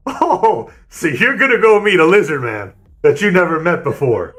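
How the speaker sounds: a lightly voiced state trooper; mock skeptical cop. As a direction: play the cop who can't believe this story. Cop mocking driver's story.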